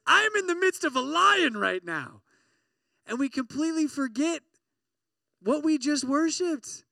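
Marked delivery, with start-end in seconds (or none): 0.1-2.2 dramatic text. Pretend. Mock text message from a friend.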